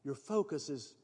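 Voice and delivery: soft, hushed voice of the Spirit; a quiet inner voice nudging; gentle whisper. Acted. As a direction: speak it gently, barely above a breath.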